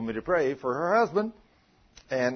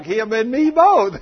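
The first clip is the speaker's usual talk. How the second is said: laughing loudly; 7 semitones higher, 11 dB louder, slower than usual. Retold or imitated. Woman laughing retelling her reaction.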